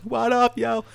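street slang voice. Pretend. Greeting listeners jokily.

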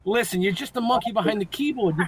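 teasing, fast and high, scolding the producer; mock scolding. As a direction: playfully berate him. Host teasing the producer about clips.

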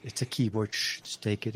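play-acted secretive handover, softly; hushed aside. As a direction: brush off questions in a hushed voice. Acting out handing gifts, shushing recipient.

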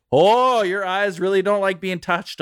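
imitating the doctor's amazed comment; doctor's surprised remark. Imitating the eye doctor, high and mock-surprised. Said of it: "He's like".

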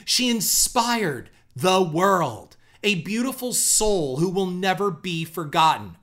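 slow, grandiose mock tribute; hammed-up memorial post, heavily emphasized; mock all-caps gushing. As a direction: proclaim each phrase with sarcastic reverence. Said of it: "in all caps, like she's twelve years old".

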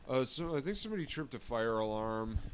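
a hint of a dazed stoner. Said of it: "That's what he sounded like".

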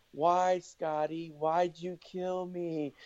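a light mock plea, drawn out and softening; Lacey Peterson. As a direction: slowly plead like a murdered wife, lightly acted. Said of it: "and she's going".

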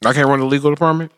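talking through a mouthful; words round hungry bites; wolfing down food. Real, not acted. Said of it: "Excuse me, I'm eating".

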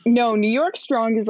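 put-on a light New York accent on the slogan. Explaining the slogan to cohosts, in a light New York accent. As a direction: toss off the phrase like a New Yorker, lightly. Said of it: "That's a pretty good accent".

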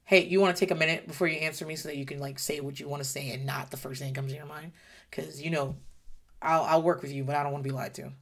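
soft, patient reassurance; gentle parent. Retold or imitated. Mother to lying child, gently offering a moment to answer, softly. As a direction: talk the child down kindly. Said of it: "I'll go".

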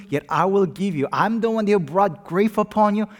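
loud, high, booming divine promise; voicing God. Pastor voicing God's promise to the church, booming. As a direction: speak as God pledging to his people. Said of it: "God said".

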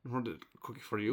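quick puppet monster voice; Cookie Monster. Acted. Monster offering a treat to the host, quick puppet voice. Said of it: "conversation with Cookie Monster".

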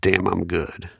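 deadpan. Retold or imitated. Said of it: "dead straight face".

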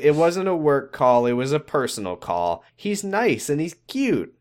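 lightly acted, smitten secretary; gushing secretary. Retold secretary gushing about caller.

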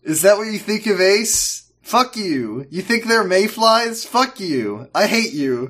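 mock fury at a TV character; angry rant.

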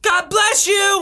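high, drawn-out exclamation; mock blessing cry. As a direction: call it out big and high, like answering a sneeze. Mimics crowd's reply to a sneeze.

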